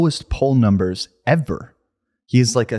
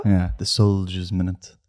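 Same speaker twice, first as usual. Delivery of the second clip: low, slow Brummy gangster voice; Thomas Shelby; 4 semitones lower than usual. Acted. Co-host quoting the show for his friend, Thomas Shelby voice. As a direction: play a slow, low Peaky Blinders boss. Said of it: "then you do the Thomas Shelby".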